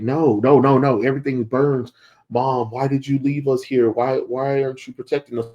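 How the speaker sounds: lightly acted cry of protest; retold distressed plea. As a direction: act out a mock-distressed plea. Acted plea of hallucinated family.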